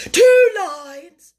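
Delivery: high, loud interjection; excited cry. A narrator's reading. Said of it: "cried the Mock Turtle".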